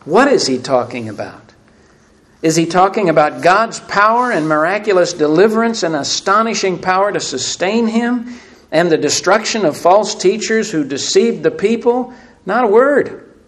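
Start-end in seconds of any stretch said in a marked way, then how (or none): 2.4-13.3 higher, louder build to a punched answer; emphatic rhetorical question. Real, not acted. Preacher questioning Elijah's answer, emphatic and rising. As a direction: pile up the list, then knock it down.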